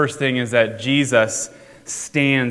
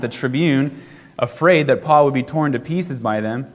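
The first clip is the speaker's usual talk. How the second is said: measured, slightly raised reading voice; scripture reading. Acted. Pastor reading Acts aloud to church, steady and clear. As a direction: read the passage out to the congregation.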